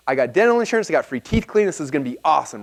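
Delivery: gushing over a free teeth cleaning; retold excitement. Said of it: "so I got really excited".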